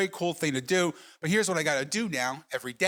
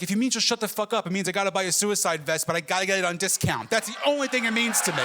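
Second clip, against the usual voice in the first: fed-up comic outburst, pitched higher at the end; exasperated retort; 4 semitones higher than usual. Retold or imitated. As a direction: snap back at a nagging mother, playing it for laughs. Acted quarrel with his insistent mother.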